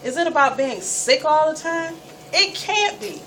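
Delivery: put-on a young girl railing at her own sickness; frustrated self-questioning. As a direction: demand an answer from life, exasperated. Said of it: "asking myself".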